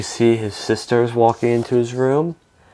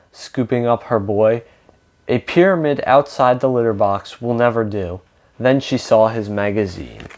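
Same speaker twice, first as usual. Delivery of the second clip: lively read-aloud with lightly acted dialogue; storybook reading with emphatic openings; picture-book narration. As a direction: read a story to children, animated.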